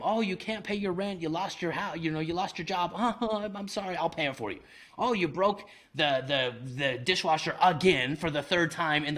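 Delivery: high, mock-pitiful pleading to the tenant; mock sobbing. Mock sobbing to the tenant on the phone. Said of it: "I would sob on the phone with him".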